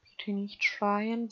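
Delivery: sehr langsam gedehnt; beschwichtigend langsam. Pretend. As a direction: zieh „schreien" beruhigend. Bittet schreiendes Kind. (langsam beruhigend)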